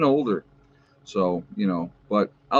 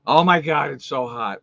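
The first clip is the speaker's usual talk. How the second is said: mock whine, louder and higher at the start; imitated complaining; 3 semitones higher, 3 dB louder than usual. Host mimicking people moaning about the heat, mock complaining. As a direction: imitate someone griping, falling away at the end.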